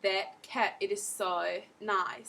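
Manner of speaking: Australian vowels, slow on the last phrase; Australian accent demo. Shown as a demonstration. Teacher demonstrating Australian vowels to learners in an Australian accent. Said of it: "See? And I just included all of the vowels".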